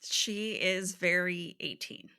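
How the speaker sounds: breathy joking whisper. Real, not acted. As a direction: whisper it like a secret. Wry aside about the character.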